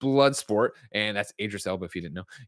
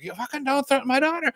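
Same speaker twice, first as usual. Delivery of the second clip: high, hammed-up threatening dad voice; a father snapping at Waller over his daughter; mock furious father.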